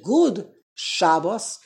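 slow "Good" ending in a voiced D, then SHA-bos; English-Yiddish mix. Shown as a demonstration. Teacher shows two languages mixed, "Good" with D plus SHA-bos. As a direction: sound the D of "Good", stress the SHA of "Shabbos". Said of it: "with a D".

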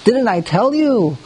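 rubbing it in. Acted. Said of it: "Reuven, he rubs it in".

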